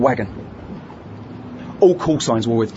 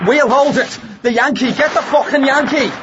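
battlefield shout; 12 semitones higher than usual. Acted. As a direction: bellow the order across the roof. Firefight, shouted orders.

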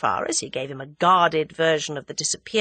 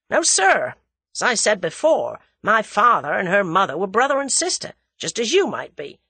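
Hersheimer, emphatic American; 4 semitones higher, 4 dB louder than usual. Acted.

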